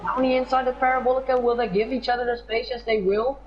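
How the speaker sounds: quick, high excited call; excited commentary. Real, not acted. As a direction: rush through the overtake. Overtake attempt, live call.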